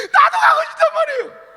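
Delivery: high, loud shouted plea; loud begging child; child wailing. Acted. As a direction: howl it at mother. Child pleading to mother.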